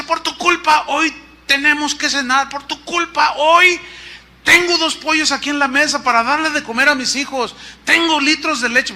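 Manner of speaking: high-pitched mock accusation, punching each phrase; ironic. Pastor blaming Chuy for tonight's dinner, ironic. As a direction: imitate an ironic caller laying on the blame. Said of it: "en tono irónico me dice".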